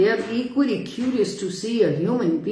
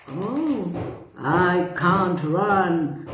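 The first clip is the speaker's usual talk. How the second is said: sniffing lion; much slower than usual. Acted. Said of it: "sniffed the lion".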